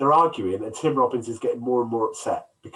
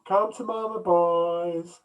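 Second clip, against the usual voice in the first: high teasing come-hither call; saucy come-on; 5 semitones higher, much slower than usual. Retold or imitated. Quoting the flashing scene.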